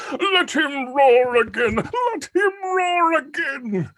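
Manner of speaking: hammed-up slow shout; mock duke shout. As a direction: bellow like an excited duke. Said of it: "make the Duke say".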